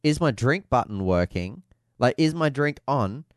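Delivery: slow, spelled-out question; retold radio question. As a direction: imitate a driver asking slowly over the radio. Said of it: "He wanted to go".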